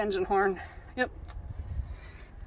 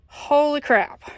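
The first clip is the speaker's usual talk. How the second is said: shocked; 5 semitones higher, 5 dB louder, slower than usual. Real, not acted. Finds mess in cubby.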